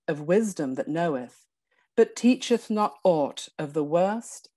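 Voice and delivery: measured verse recital with lilting stresses; formal, expressive poem reading; poetry reading. Acted. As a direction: recite it as solemn verse, pausing at line ends. Reads poem aloud after plain introduction.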